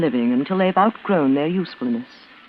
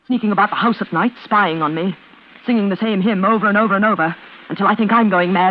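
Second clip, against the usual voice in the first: builds from tight to louder fury; bitter tirade that swells louder at the end; rising anger; 3 semitones higher, 4 dB louder than usual. Acted. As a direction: list the grievances, louder each time. Lydia vents at her sister.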